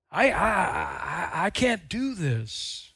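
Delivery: small, halting, hesitant voice; timid whimper. Pretend. Believer doubting their calling, timid stammer. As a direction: shrink back, stammering.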